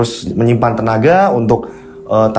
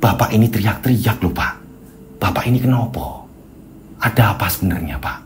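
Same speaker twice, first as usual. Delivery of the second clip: concerned wife; 5 dB quieter than usual. Acted. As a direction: press gently, pausing between questions.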